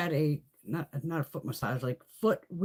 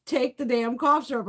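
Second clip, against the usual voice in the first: father; 6 semitones higher, 4 dB louder than usual. Retold or imitated.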